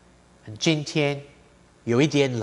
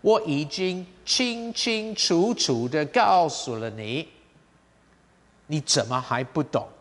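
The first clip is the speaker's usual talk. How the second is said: emphatic scolding. Shown as a demonstration. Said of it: "used for emphasis".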